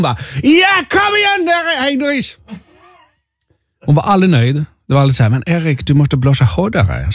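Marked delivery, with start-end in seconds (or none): 0.4-2.4 screamed, stretched mock German accent. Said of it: "hon kallar mig för Heinrich". 5.3-7.1 light mock German accent. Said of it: "hon pratade lite så här med tysk accent".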